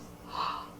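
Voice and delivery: sharp intake of breath; storybook mother's gasp; shocked gasp. Acted. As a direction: gasp at bad news. Mother hears about the beans.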